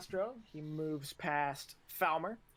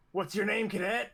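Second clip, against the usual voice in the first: raised, loud military demand; barking instructor; 3 semitones higher, 5 dB louder than usual. Acted. Instructor stops at another cadet, barked question.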